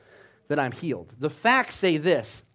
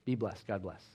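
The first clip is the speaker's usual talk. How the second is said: softer, lower blessing; 5 semitones lower, 3 dB quieter than usual. Retold or imitated. Patient blessing the shaken doctor, soft and gentle. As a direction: send him off gently. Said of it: "And she said".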